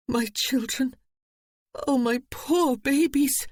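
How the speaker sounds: high, slow wail of pain; anguished cry. A narrator's reading. Mother crying out for her taken children in anguish. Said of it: "The pain in Eve's voice".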